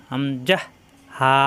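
"হামজা হা" pronounced firmly, letter by letter; crisp stop on "হামজা", then open "হা"; teacher demonstrating "হামজা হা" from the throat; firm articulation. Shown as a demonstration. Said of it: "শক্ত করে উচ্চারণ".

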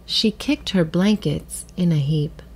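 put-on measured storybook reading for children; gentle read-aloud with clear pauses; story narration. A narrator's reading. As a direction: read it like a picture book, with pauses. Reads a picture book.

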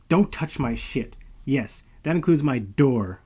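slow, clipped-off warning, each word set down; slow snap. Acted. Malo warns the intruder off her things, slow and firm. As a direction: lay down the rule to him, slow and firm. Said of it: "I snapped at him".

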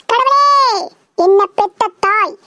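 hammed-up earnest prayer to God; mock prayer. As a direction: plead with God as a devout son. Son prays aloud to God.

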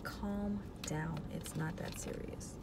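soft, slow, breathy brush-off; dismissive stranger. Pretend. Imagined viewer telling her to calm down, dismissive. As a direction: wave her off without much interest. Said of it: "maybe they'll be like".

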